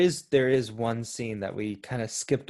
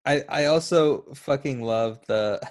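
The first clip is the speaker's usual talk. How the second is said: trying not to laugh. Real, not acted. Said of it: "Sorry, I'm losing it".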